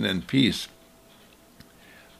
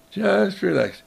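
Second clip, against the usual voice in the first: lifted higher, still gentle; reassuring repeat; 6 semitones higher than usual. Acted. Mother repeating her reassurance to the child, lilting.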